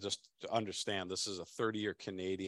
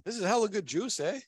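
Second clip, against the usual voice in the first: high, loud hammed-up Canadian accent with eh; 13 semitones higher, 7 dB louder than usual. Host's co-host hams a Canadian accent, high and loud. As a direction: play up a jokey Canadian accent. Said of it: when the co-host does his accent, a Canadian accent.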